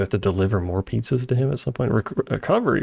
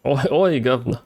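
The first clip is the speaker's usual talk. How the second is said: mock British accent; 2 semitones higher than usual. Mock British greeting after accent talk.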